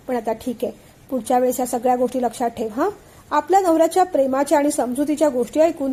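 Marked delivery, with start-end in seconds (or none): 0.1-2.9 softened reassurance. Acted. Husband softens after scolding.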